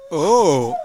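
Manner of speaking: quacking like a duck. Pretend. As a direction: squawk it out like a duck. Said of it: "fais le canard".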